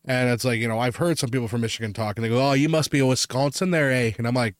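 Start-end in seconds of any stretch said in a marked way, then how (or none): 2.5-4.1 hammed-up Canadian accent; mock Upper Midwest-Canadian accent. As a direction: tease with a put-on Canadian "eh". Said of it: "I just went full Canadian to a point".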